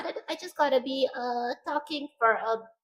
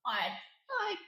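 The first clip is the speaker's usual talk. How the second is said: high pitch voice; 5 semitones higher, 8 dB quieter than usual. Shown as a demonstration. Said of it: "I'm trying to talk in a, in a high pitch voice".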